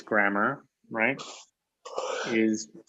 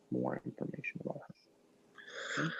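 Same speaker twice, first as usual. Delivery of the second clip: quick, much softer half-whisper; whispered echo; 3 semitones higher, 16 dB quieter, faster than usual. Shown as a demonstration. Teacher repeating the point to students, whispered. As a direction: toss it off under your breath. Teacher echoes the phrase softly.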